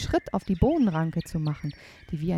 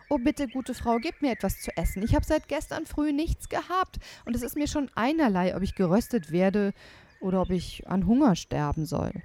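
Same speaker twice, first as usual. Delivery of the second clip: pleading; 5 semitones higher than usual. Acted. Hungry boy begs.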